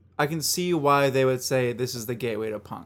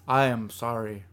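mock German; 4 semitones lower than usual. Host takes a last turn, mock German accent. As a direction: lower put-on German accent. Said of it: "let's stop with these accents".

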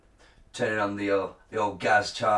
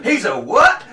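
loud, higher shout through laughter; laughing mock shout; 8 semitones higher, 10 dB louder, slower than usual. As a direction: shout it like a shocked crowd.

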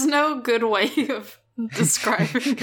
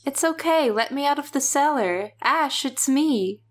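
higher-pitched coaxing imitation; mimicking possessed Cheryl; 4 semitones higher than usual. Demon Cheryl pleading with Ash from the cellar, mock coaxing. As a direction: coax him in a put-on, higher voice. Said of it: "She's like".

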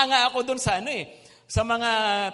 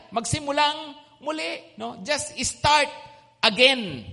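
emphatic urging; 4 semitones higher, 5 dB louder than usual. Real, not acted. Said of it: "preacher urging listeners".

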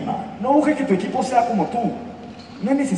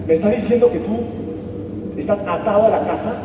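building disbelief; 3 semitones higher than usual. Acted. Wolf can't believe the dog never leaves, building disbelief. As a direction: get more incredulous with every line.

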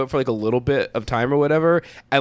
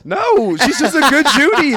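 high, loud campy sass; camp drag voice; 13 semitones higher, 6 dB louder than usual. Acted. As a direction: put on a queeny drag voice. Camp reply to teasing.

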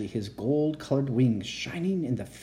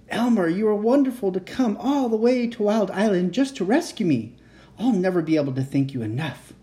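dragon voice; 7 semitones higher, 3 dB louder than usual. Acted. Dragon voiced in read story.

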